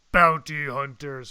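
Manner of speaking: slow, weighty bounty hunter. Shown as a demonstration. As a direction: drawl it slowly like a bounty hunter. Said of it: "that's my Bounty Hunter impression".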